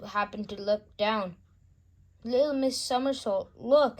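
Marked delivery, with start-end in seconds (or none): 2.2-4.0 high, loud cry of panic; panicked cry. A narrator's reading. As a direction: yell out in sudden fright. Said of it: "he cried out in panic".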